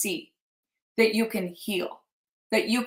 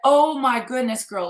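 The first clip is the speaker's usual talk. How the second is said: louder retold gasp of dismay; mock shocked friend; 2 semitones higher, 4 dB louder than usual. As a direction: imitate a friend's startled sympathy. Acting out friend's shocked reaction.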